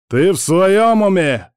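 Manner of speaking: high, loud, drawn-out exclamation; outraged cry. A narrator's reading. Лев reacting to a reckless offer, outraged cry. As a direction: cry out in disbelief, stretching the words. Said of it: "вскричал Лев".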